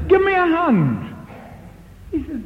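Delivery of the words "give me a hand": higher, louder, slow demand; loud slow order for help. Retold or imitated. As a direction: bark it slowly at the men.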